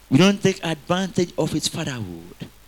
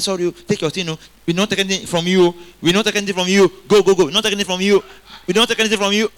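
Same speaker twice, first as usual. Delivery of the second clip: firm, louder refusal, pushing them away; retold insistence, getting louder; insistent refusal; 3 semitones higher, 4 dB louder, much faster than usual. Robbers offering loot, he firmly refuses them. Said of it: "I said".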